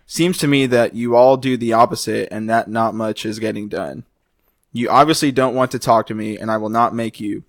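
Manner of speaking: Southern twang. Acted. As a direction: read the mom's text in a drawling Southern accent. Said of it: "super, super twang".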